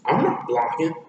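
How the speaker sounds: lightly acted defensive comeback; defensive denial. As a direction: deny it defensively. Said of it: "in a defensive but yet denial way".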